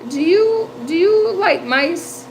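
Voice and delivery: high, hesitant, coaxing question; tentative asking. Retold or imitated. Nana sounding out a neighbour about mice, tentative. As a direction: ease into an awkward favour, acted out. Sheepishly asking a stranger for help.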